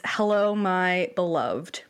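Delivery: slow, drawn-out spam greeting; mock reading. Reading a spam subject line aloud to cohost, slowly. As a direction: read it out slow like a fake love letter. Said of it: "the subject line reads".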